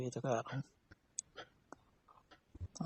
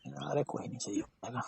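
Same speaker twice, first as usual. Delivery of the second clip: soft whisper; 8 dB quieter than usual. Real, not acted. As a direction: breathe it gently to soothe her. Comforting partner in pain. (धीमी फुसफुसाहट में दिलासा)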